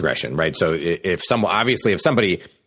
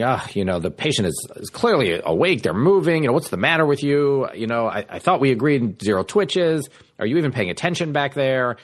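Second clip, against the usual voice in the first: mildly raised, annoyed surgeon jabs; role-playing a surgeon; 6 semitones higher than usual. Attending surgeon scolding the resident in the OR, lightly acted annoyance. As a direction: needle the resident like an irritated surgeon. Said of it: "semi role plays".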